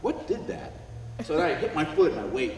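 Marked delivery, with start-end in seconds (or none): 0.0-0.7 breathy puzzled whisper; whispered wonder. Retold or imitated. Office worker puzzling over his uncle's cash, whispering. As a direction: whisper it like you just discovered a trick. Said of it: "I'm like".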